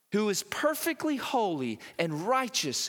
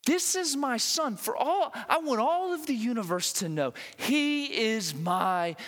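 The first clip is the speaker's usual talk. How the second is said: proclaiming God's words; 4 semitones higher than usual. Acted. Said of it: "God screaming to the universe".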